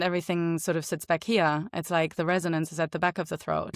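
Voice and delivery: light German accent, resonance at the back of the throat. Shown as a demonstration. Voice actor repeating it for the host, light German accent. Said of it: "when I speak in a German accent".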